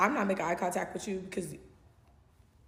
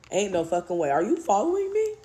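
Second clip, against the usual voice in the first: alarmed shout; 3 semitones higher, 9 dB louder than usual. Retold or imitated. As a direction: yell it in panic. Spotting him at restaurant.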